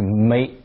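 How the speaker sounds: meet drawn out, the E sliding toward "ay"; London long E; stretched meet. Shown as a demonstration. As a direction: drag the vowel in meet. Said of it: "把那个E稍微拖一点".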